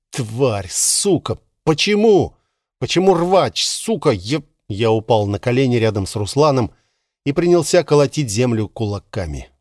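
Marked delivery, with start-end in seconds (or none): 0.1-4.4 крик отчаяния над телом друга; сорвись на крик, с болью; яростный крик. Acted. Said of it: "прекратил кричать". (надрывный яростный крик)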